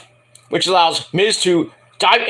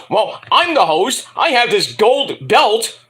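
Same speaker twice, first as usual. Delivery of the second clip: imitating a rapper; 3 semitones higher, slower than usual. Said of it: "a rapper says".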